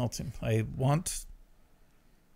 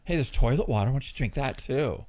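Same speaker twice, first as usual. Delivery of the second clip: sarcastic inner goading; mock-helpful scorn; self-loathing voice. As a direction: needle yourself with fake encouragement. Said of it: "best self-loathing voice on earth".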